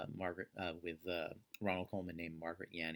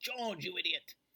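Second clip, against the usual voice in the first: very high-pitched put-on cartoon ape voice; 12 semitones higher, 5 dB louder than usual. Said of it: "the ape that sounds like Ronald Colman".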